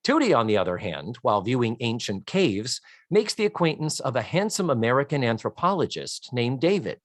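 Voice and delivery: measured read-aloud with swooping emphasis on names; deliberate storyteller-style recap; reading a synopsis. Real, not acted. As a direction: read out a plot summary, lightly theatrical.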